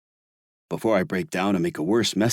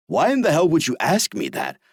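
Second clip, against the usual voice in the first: higher, louder near-roar; nearly roaring; 8 semitones higher, 3 dB louder than usual. Acted. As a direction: explode at the accusation. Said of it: "I nearly roar".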